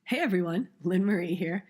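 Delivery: hoarse, strained voice from an allergy attack; lost voice. Real, not acted. Podcast host warning listeners about her lost voice, hoarse. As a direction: push the words out through a nearly gone voice. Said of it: "my voice is basically gone".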